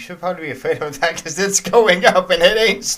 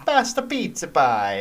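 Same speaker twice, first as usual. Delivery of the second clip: a hammed-up Italian accent, each food word tossed out; playing the Italian stereotype with a light Italian accent; mock Italian accent; slower than usual. Son mocks Italian speakers with a mock Italian accent. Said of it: "speaking English with that whole hand thing".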